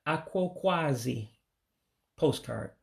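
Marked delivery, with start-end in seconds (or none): 0.1-1.3 Aquaquasi said slowly, each syllable clear; careful pronunciation. Shown as a demonstration. Teacher showing learners the word for postcard, Aquaquasi said slowly and carefully. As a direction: sound out Aquaquasi slowly and evenly. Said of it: "in order to pronounce it correctly".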